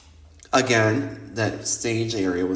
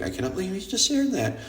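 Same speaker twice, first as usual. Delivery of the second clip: higher, fast, mock-appalled friend voice; imitating scandalized friend; 8 semitones higher, 4 dB quieter, faster than usual. Friend reacting to this video, mock appalled and fast. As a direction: play the friend who's horrified. Voicing friend hearing the story.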